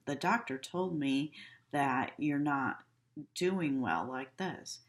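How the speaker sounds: flat, slowing at the end; blunt. Shown as a demonstration. Nurse telling a patient bad news, a touch blunt. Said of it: "I'm not gonna go in and say".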